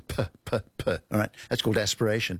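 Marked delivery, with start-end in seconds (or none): 0.1-0.9 "P" with a puff of air; aspirated P. Shown as a demonstration. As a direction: breathe out hard on each "p". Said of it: "it's got a puff of air with it".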